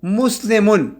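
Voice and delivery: مسلمن then مسلمین stretched out very slowly; slow demo. Shown as a demonstration. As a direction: draw out the ending ین for students. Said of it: "جر کی حالت میں". (بہت آہستہ کھینچ کر تلفظ)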